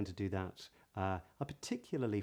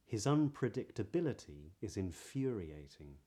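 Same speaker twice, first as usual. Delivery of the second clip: modern British accent. Shown as a demonstration. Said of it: "here are some sentences".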